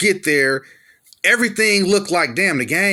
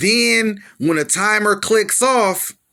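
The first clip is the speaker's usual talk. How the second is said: ordinary delivery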